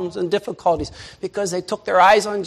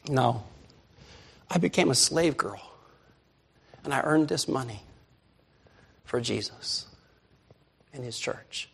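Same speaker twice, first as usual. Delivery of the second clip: put-on soft, hushed tearful girl; little girl answering the accusing church members, softly tearful; crying girl; 4 semitones lower, 8 dB quieter than usual. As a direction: lightly voice a weeping little girl. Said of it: "And she starts crying".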